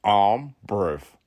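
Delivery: "brave" said "breev" in a put-on voice; mock guru "I'm breev"; brev. Shown as a demonstration. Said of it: "B R E V".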